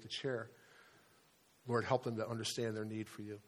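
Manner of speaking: steady, earnest prayer voice; closing prayer. Acted. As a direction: pray it sincerely for the congregation.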